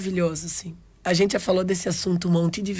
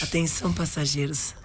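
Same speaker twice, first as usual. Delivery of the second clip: airport announcement; 6 dB quieter than usual. Pretend. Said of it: "Voz de aeroporto".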